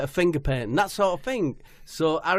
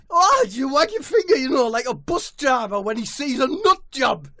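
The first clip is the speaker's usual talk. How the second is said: high, loud scouse footballer voice; high-pitched footballer caricature; Jordan Henderson voice; 11 semitones higher, 8 dB louder than usual. Acted. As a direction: squeal it like an overexcited footballer. Jordan guessing.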